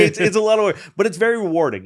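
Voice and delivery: laughing while talking. Real, not acted. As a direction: chuckle through the words.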